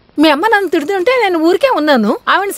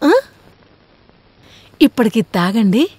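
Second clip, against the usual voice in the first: tender; 9 semitones lower than usual. Acted. Wife fussing tenderly over husband.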